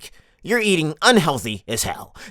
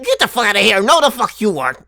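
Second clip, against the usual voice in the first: raised-pitch mock outrage; scornful dismissal; 5 semitones higher, 4 dB louder than usual. Comedian tells off fake southern singers, exasperated and scornful. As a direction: send the phonies packing.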